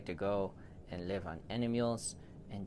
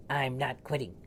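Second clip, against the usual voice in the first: rising insistence; 5 semitones higher than usual. Acted. Repeated refusal, rising.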